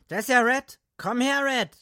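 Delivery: high, loud friendly call; calling over. Acted. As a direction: call him over loudly. Dick greets Red across bar.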